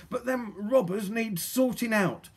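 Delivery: put-on high, slow, determined girl; through gritted teeth. A narrator's reading. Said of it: "said Polly through gritted teeth".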